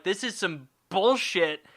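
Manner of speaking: mock frustration, key words stretched; frustrated God. God rejecting Cain's plants, frustrated. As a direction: complain with slow, stressed indignation. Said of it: "spit at him in frustration".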